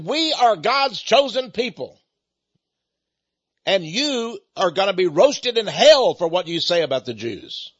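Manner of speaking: half-acted fury, wagging a finger; retold angry man. Angry man warning the preacher of hell, retold fury. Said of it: "boy, was he ever angry".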